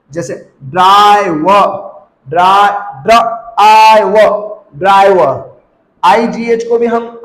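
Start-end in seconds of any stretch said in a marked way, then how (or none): 0.6-5.5 ड्राई व broken up with a long आई; sounded out slowly. Shown as a demonstration. Teacher demonstrating long आई, slowly sounded out. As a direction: stretch आई and separate व in ड्राई व. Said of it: "इसको long जब pronounce करेंगे".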